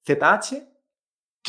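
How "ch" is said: CH buzzed as unaspirated zh; vibration without air. Shown as a demonstration. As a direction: say CH as a buzz with no puff of air. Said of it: "vibración sin aire".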